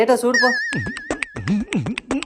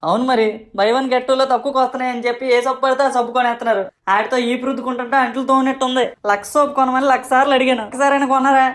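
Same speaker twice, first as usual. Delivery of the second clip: indignant back-talk; 3 semitones higher than usual. Acted. Son protesting back at scolding father.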